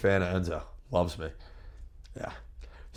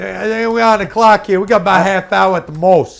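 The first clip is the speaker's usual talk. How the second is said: much higher, much louder cut-in; loud interjection; 11 semitones higher, 13 dB louder than usual. Real, not acted. Guest reminds the interviewer they are on the clock, loud interjection. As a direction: cut across the question, voice thrown up high. Cuts in about the time limit.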